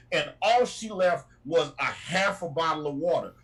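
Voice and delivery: ordinary talk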